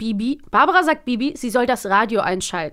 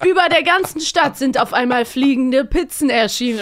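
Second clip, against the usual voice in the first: mock serious newsreader; 4 semitones higher, 4 dB louder than usual. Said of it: "so ganz seriös".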